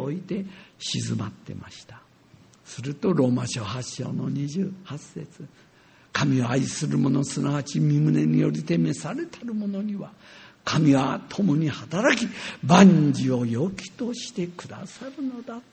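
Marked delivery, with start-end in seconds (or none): 6.1-15.6 scripture reading. Acted. Preacher reciting Romans eight twenty-eight to the congregation, solemn. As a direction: read the verse reverently.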